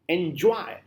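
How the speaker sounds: "enjoy" with the weight on JOY; light "en", then lean on "joy" in "enjoy"; stress on JOY. Shown as a demonstration. Teacher showing students an iambic word, stress on JOY. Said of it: "putting stress on the word joy".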